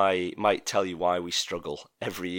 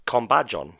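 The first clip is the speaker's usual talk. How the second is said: Japanese accent; 5 dB louder than usual. Shown as a demonstration. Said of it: "my best Japanese accent".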